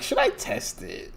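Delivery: unvoiced, high sneaky whisper; whispered question. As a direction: whisper it like a guilty thought. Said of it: "but I'm like".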